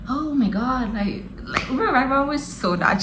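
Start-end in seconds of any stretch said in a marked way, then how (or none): 0.1-0.9 milder, slightly high retold alarm; understated mock panic. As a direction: play the mother's panic down. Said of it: "she started panicking as well".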